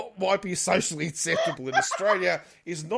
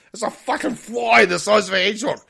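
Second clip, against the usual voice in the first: excited exaggeration; 5 semitones higher, 10 dB louder than usual. Real, not acted. Exaggerating giant flies.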